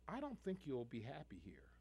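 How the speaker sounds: retold boss, dropped to a near whisper; hushed brush-off. Boss to the applicant he won't hire, hushed. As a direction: breathe it quietly, like a polite rejection. Boss quietly turning him away.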